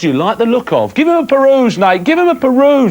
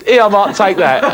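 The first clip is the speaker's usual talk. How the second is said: punchline said through a laugh; 3 semitones higher than usual. Retold or imitated. Host retelling Nathan's joke, laughing. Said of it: "meant to give this one".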